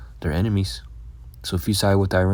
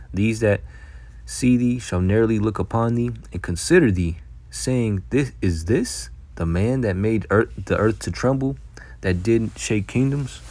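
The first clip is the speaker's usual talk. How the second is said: slow, raised preacher's scripture read; 3 semitones higher, slower than usual. Acted. Preacher reading the verse to his listeners, slow and raised. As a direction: lift the verse up slowly like a pulpit reading.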